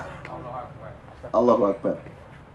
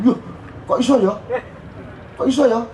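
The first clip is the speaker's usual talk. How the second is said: put-on amazed little boy; 8 semitones higher than usual. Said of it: "Itu reaksinya".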